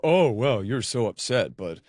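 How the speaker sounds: a hint of smug condescension; mock him as calm and superior; smug gentleman voice. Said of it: "he gets to go".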